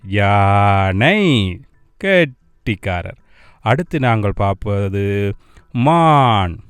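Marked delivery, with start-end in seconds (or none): 0.0-1.6 யானை firmly voiced and very drawn out; loud for repeating. Shown as a demonstration. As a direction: stretch யானை out for children to copy. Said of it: "சத்தமா சொல்லுங்கோ". (சத்தமாக நீட்டி சொல்லும் யானை)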